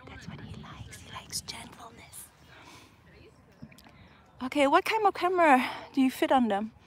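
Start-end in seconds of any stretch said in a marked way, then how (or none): 0.1-2.3 hushed whisper about her gentle bird; whispering so the bird stays calm. Real, not acted. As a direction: breathe it, barely voiced.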